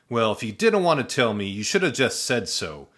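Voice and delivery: mild mock yell at the shadow; annoyed yell. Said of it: "he yelled".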